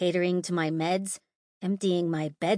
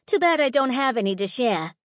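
taunting; 5 semitones higher, 5 dB louder than usual. A narrator's reading. Holly taunting.

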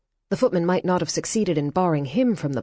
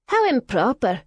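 murmured; 8 semitones higher, 3 dB louder than usual. Acted. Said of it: "a heavily jewelled woman murmured".

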